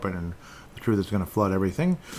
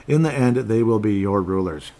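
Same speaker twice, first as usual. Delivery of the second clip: emphatic, measured Bible reading; scripture reading; 3 dB louder than usual. Acted. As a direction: read the verse out firmly, weighting each phrase. Reads a Bible verse aloud.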